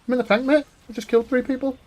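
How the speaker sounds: high, pleased boast of a tank kill; smug retold reply. Telling his dead teammate, a high gleeful boast.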